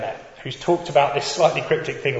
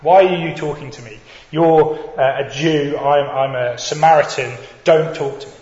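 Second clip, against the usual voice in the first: louder, mildly defensive retort; defensive push-back; 6 dB louder than usual. Retold or imitated. Samaritan woman rebuffs a Jewish man's request, mildly defensive. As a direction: push the stranger away, a little louder. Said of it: "instead it was to push back".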